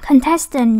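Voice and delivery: con-TES-tant, middle syllable stronger; stress on second syllable. Shown as a demonstration. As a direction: say "Contestant" slowly, stressing TES. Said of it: "nhắn âm hai". (nhấn âm hai của "Contestant")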